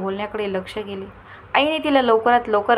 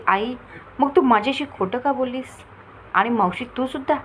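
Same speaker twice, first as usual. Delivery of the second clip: mock anger; 3 semitones higher than usual. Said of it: "ती लटक्या रागाने आईला म्हणाली".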